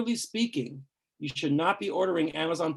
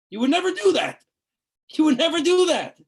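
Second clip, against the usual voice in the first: emphatic; 10 semitones higher, 7 dB louder than usual. Real, not acted. Emphatic rebuke to listeners.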